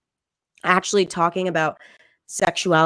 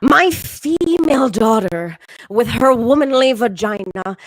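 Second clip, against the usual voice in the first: hammed-up gushing mom; 3 semitones higher than usual. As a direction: overdo every gendered word. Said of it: "but now it's".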